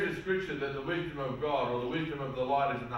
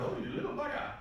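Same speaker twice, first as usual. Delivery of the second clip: a high, airy whisper of Oh, you little bugger; father marvelling quietly at his defiant boy; breathy amused aside; 12 semitones higher, 3 dB quieter than usual. Retold or imitated. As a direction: say it under your breath, half impressed. Son stands up to him.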